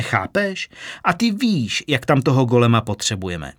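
exasperated boss. Acted. Vlaher exasperated explaining to Kitka.

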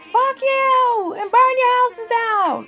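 high mocking impression of critics; mock hater voice. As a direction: squeak it out like a petty troll. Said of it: "Y'all probably like".

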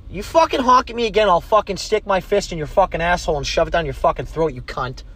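real road rage, barking at the car behind; angry yell. Real, not acted. Podcaster yelling at a driver who honks at him, angry.

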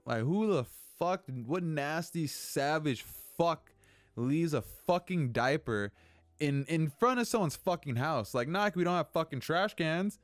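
real anger boiling over at a diaper left on the doorstep; losing it. Real, not acted. Angry rant at the neighbor's dirty diaper on the doorstep. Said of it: "and I lose my shit".

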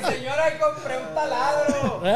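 calling out. Pretend. Joker announces his new drill to a neighbor, calling out. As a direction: call across to the lady, half laughing. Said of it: "Por eso estoy gritando para allá".

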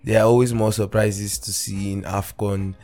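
upbeat show opener over music; football podcast host hyping the show; podcast intro. Acted. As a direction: open the episode with energy.

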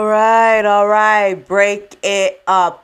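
calling out. Acted. Breaking up the quarrel.

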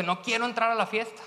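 put-on older brother fuming at father; angry older son. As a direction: protest the unfairness to dad. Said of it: "se enoja tanto y dice".

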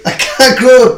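furious yelling; angry shouting. Real, not acted. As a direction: shout them down, demanding they stop. Angry quarrel, demands camera off.

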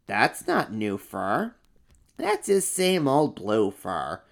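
slow, matter-of-fact little monster; second monster. Acted. Second monster says it's the same old blue fur. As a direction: state it plainly and slowly.

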